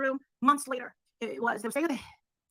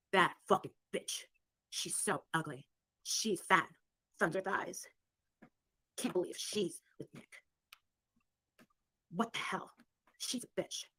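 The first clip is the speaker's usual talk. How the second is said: low, soft, slow imitation of whispering girls; catty muttered gossip; 6 semitones lower, 8 dB quieter, slower than usual. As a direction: mutter it behind her back, low and slow. Girls gossiping as she passes.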